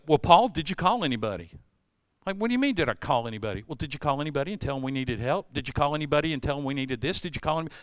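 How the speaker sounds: quiet, quick nagging wife; a hint of the wife pressing; mock wife nagging. Wife asking Paul if he called for help, mild quick nag. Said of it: "Sandra go".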